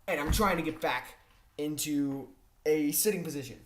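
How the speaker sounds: ordinary talk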